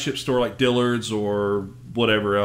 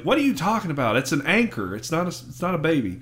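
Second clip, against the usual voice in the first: mildly annoyed, acted-out retort; 3 semitones higher, faster than usual. Squidward corrects SpongeBob about the anchor, mock annoyance. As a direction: imitate an irritated neighbor setting someone straight. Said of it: "of course, is annoyed".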